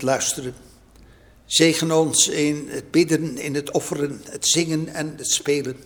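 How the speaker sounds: calm, measured prayer voice. Acted. Pastor leads opening prayer.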